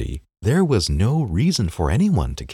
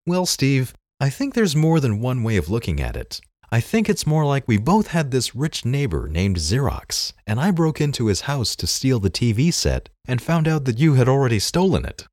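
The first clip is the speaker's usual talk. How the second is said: higher, squeaky cool reply; Bill Gates squeaky voice; 6 semitones higher than usual. Acted. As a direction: answer calmly in a squeaky voice. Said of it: "in his squeaky voice".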